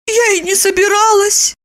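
high indignant woman's voice; Lipochka lying. A narrator's reading. Lipochka lying to Roman, high protest. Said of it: "солгала".

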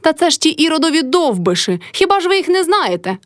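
shrill high yell, topping the last word; old woman shrieking. A narrator's reading. Mother-in-law screeches back at the crowd, very high. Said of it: "репетувала баба Кайдашиха".

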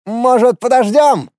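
high-pitched timid squeak. A narrator's reading. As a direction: squeak it out nervously. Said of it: "неожиданно высоким голосом пропищал".

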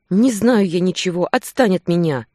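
frightened woman yelling to seem stronger; loud, nervous. A narrator's reading. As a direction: shout her back to cover fear. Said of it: "Громко, нервно".

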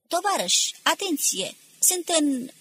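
high, urgent call over noise; shouting for attention. A narrator's reading. Officer tries to address the crowd, shouting for attention. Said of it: "putu să strige".

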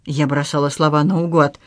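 ordinary delivery

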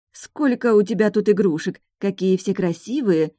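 trying hard to sound jolly to a beast; forced cheerful. Acted. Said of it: "Я старалась говорить жизнерадостно". (нарочито жизнерадостно, выше)

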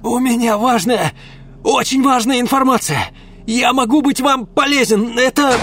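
high loud panicked begging; desperate pleading. Acted. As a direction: beg for your life. Ulm begs for his life.

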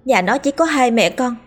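put-on pleading servant girls. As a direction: plead with the mistress for mercy. Servant girls begging mercy.

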